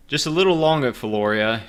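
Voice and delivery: high, loud robot voice. Acted. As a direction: stiff mechanical character voice. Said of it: "I don't have my voice yet".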